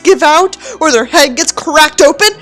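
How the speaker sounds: contemptuous book reading, evenly paced; story narration. Acted. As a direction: read the passage with disdain.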